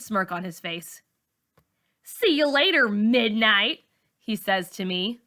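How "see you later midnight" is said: tease. A narrator's reading. Boy teasing Malika.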